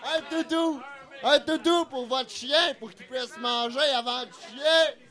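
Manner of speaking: auctioneer calling out bids. Pretend. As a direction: call each bid like an auctioneer. Runs a mock auction.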